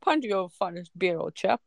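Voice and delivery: lightly hammed posh English; mock posh English. Listener joins the joke ordering beer, mock posh English. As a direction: play an English gent ordering.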